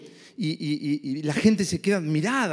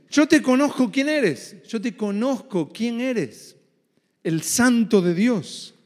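demon voice; 2 semitones higher, 3 dB louder, slower than usual. Acted.

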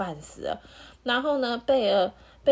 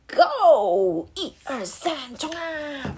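loud battle cry; charge shout; 6 semitones higher, 5 dB louder, much slower than usual. Acted. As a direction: yell the pack into the charge. Wolves charging the piglets.

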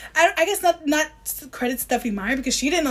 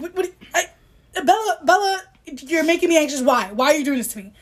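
mock anxious plea; 4 semitones higher than usual. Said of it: "it just made me so anxious".

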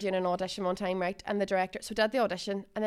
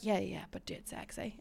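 breathy director voice; 3 semitones lower, 12 dB quieter than usual. Retold or imitated. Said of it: "she was like".

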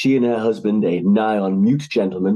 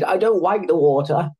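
put-on higher pleading boy's voice; begging son; 8 semitones higher than usual. A narrator's reading. Son begging his mother not to send him to sea, pleading. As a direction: beg like a frightened softy. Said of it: "he begged".

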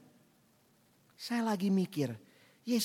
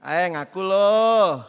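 slow, pressing accusation; a bystander pressing Peter slowly and firmly; forceful demand; 2 semitones lower, 7 dB louder, much slower than usual. Retold or imitated. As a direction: lean on him hard until he admits it. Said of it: "Dia ngegas kan?".

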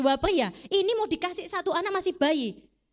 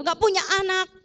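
mock indignant outburst; 5 semitones higher than usual. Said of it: "dia nggak marah".

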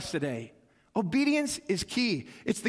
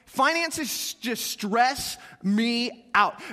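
drawn out very slowly; much slower than usual. Shown as a demonstration. Pastor confessing money stress to congregation, drawn out very slowly. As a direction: stretch every word of "Finances just stress me out" long and heavy. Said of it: "Anybody else in that boat?".

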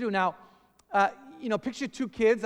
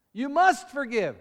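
high, loud order; you must forgive, shouted as a command; 5 semitones higher, 5 dB louder than usual. Shown as a demonstration. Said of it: "It's like a command".

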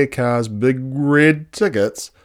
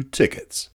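whispered; 4 semitones higher than usual. A narrator's reading. Woebegone pulls out tickets.

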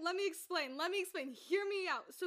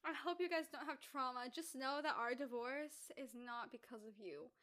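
mock divorcing parent; 4 semitones lower, 7 dB quieter than usual. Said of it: "Mommy and Daddy separated".

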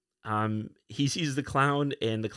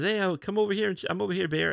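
Daffy Duck; 8 semitones higher, faster than usual. Retold or imitated. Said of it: "the Daffy Duck character".

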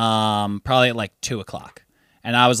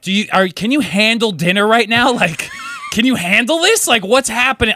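laughing disbelief; 8 semitones higher, 3 dB louder than usual. Retold or imitated. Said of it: "I'm like".

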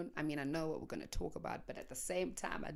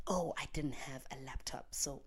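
mock whisper; 3 semitones lower, 4 dB quieter than usual. Mock excuses to herself.

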